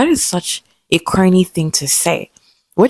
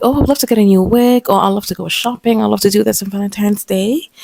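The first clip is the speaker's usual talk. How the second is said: sweetly excited; 4 semitones higher than usual. Retold or imitated. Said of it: "So I'm like".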